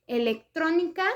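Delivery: "electrónica" with the weight on TRÓ; teacher's example "electrónica", stressed third syllable from the end; antepenultimate stress. Shown as a demonstration. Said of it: "con sílaba tónica en la antepenúltima".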